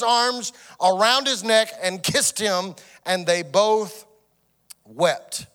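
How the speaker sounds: measured Bible reading, slowing near the end; scripture reading. Acted. Pastor reading Jacob's story aloud, measured. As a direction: read the passage steadily.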